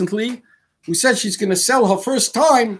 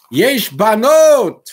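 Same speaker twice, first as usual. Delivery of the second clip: sly pitch; 3 semitones higher, 6 dB louder, much slower than usual. Acted. Guy pitching the army video.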